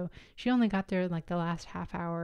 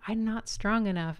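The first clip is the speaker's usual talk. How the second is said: weak plea; 4 semitones higher, 3 dB louder than usual. Retold or imitated. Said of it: "And I said at one point".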